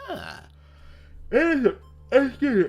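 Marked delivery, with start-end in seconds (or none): 1.3-2.7 tags 1. Real, not acted. After a burp or cough.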